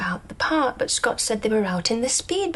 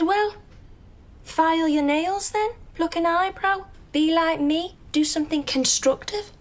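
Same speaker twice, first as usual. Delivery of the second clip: exasperated retort; 6 semitones higher than usual. Retold or imitated. Scott's exasperated advice, retold.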